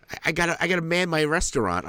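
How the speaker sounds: imitating a busy gamer girlfriend, up high; mock ex girlfriend. Ex quoted in mock voice.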